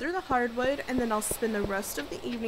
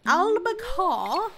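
excited; 8 semitones higher, 7 dB louder, much slower than usual. Real, not acted. Announcing the catch.

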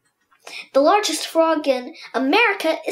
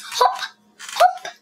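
1 bouncy hop. Pretend. Acts out frog hop.

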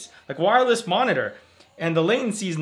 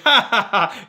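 louder, higher spoken ha-ha; mock ghost laugh; 4 semitones higher, 5 dB louder than usual. Man playing the ghost in his house, mock laughing. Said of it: "The ghost was sitting there laughing".

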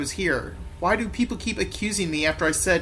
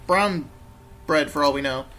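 lightly voiced cockney copper; lively slang-slinging policeman patter; jokey London policeman; 3 semitones higher than usual. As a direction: play a dismissive London bobby.

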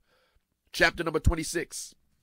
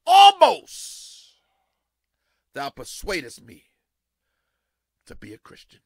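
dramatic Agrippa; 9 dB louder than usual. Acted. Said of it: "Agrippa said unto Paul".

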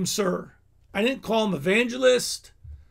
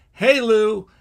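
loud greeting; 7 dB louder than usual. Retold or imitated. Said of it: "he goes".

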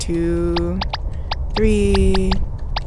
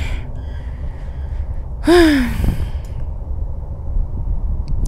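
long, breathed-out sigh; 7 semitones higher, 6 dB quieter than usual. Real, not acted. Player recovering from a scare, long heavy sigh. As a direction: let out a long exhale.

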